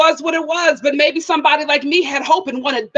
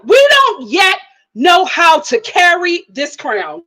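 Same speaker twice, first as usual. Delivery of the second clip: preachy proclamation; slower than usual. Real, not acted. Telling viewers they're not ready, preachy.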